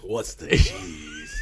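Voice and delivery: mock southern drawl. Friend echoing the detective's line in a hammy high southern drawl. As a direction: stretch it out in a hammy southern twang.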